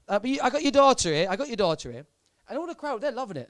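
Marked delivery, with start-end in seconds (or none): 0.2-2.1 a singer's voice. Retold or imitated. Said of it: "that's how he speaks".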